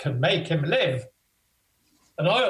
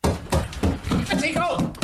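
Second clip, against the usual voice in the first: slow stage whisper; 8 semitones higher, slower than usual. Acted. King in stage aside.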